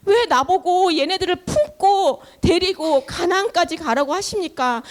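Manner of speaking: weary protest building from halting calls to insistent questions; acted exhausted plea. Worn-out Moses asking God why he must carry the people, pleading. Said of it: "모세가 지쳤어".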